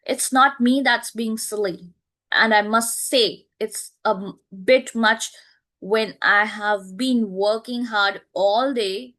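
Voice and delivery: an aggrieved daughter's complaint; indignant. Shown as a demonstration. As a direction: push each word out in grievance. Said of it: "this is the way Doris is speaking".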